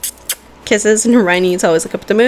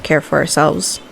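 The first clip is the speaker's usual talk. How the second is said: heartfelt pep talk. Acted. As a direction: speak from the heart to lift them up. Emotional motivational pep talk.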